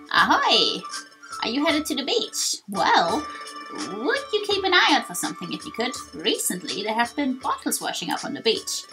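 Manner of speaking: lively beach greeter with swooping pitch; a hint of a chatty character hailing passers-by; lightly acted, sing-song request for a favour; lightly voiced game character.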